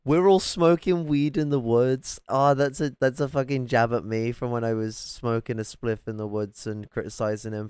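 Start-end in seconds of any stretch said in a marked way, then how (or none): 0.1-2.2 loud, high, slow mimicry; drawn-out mocking echo, pitched up and loud; mocking repeat. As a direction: parrot his words back mockingly. Mockingly repeats the clip just played.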